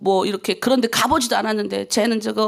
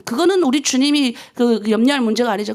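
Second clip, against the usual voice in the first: ordinary talk, nothing marked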